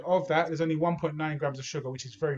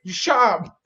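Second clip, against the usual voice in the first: mock fuming; 5 semitones higher, 3 dB louder than usual. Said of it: "I'm so fuming".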